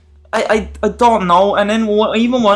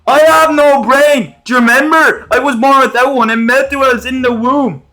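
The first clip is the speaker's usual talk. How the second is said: hammed-up dimwit, pitched way up; dopey Josh voice; 6 semitones higher, 5 dB louder than usual. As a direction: play him as a proud idiot. Josh voiced as dim-witted.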